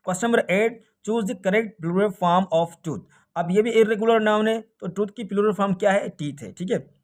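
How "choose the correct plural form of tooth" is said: very slow, deliberate reading; teacher slowly reading a test question aloud. Shown as a demonstration. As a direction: read the question word by word, slowly.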